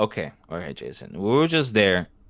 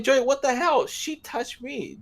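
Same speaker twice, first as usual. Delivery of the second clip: mock protest; slower than usual. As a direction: protest in a high, raised voice. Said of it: "and I'm like".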